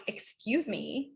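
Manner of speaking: slow, drawn-out "excuse me" with attitude; rude tone. Shown as a demonstration. Coach showing students a tone to avoid, rude. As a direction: stretch it out, arms crossed and affronted. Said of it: "with that tone and my arms crossed".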